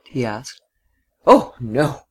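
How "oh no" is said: open-throated exclamation; full-throated cry. A narrator's reading. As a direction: cry it out from the chest. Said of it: "she cried with full throat".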